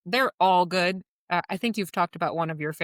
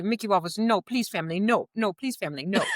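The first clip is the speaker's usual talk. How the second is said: put-on Italian accent; 3 semitones higher than usual. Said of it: "in his lovely Italian accent".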